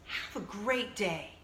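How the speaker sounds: put-on slow, gentle old-lady sign-off; lightly voiced old woman, slow; mimicking the old lady. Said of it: "and she says".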